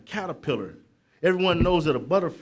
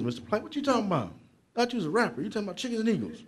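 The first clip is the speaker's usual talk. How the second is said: quick, higher mock teen voice, laughing; mocking kid voice; 5 semitones higher, 5 dB quieter, much faster than usual. Kids in the audience teasing the speaker about chickens, in a fast, higher mock voice. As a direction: tease the speaker like a doubtful youngster.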